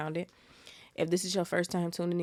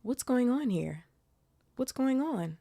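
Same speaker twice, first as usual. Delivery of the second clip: caretaker's voice pitched much higher, slow and drawn out on going; a failed first try at the grumpy old caretaker, much higher; attempted Filch voice; 8 semitones higher than usual. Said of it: "I can't even do his voice".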